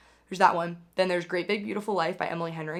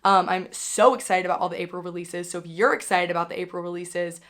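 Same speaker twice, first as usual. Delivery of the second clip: raspy, sick voice; talking through a sore throat; hoarse voice. Real, not acted. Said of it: "bearing with my voice in this video".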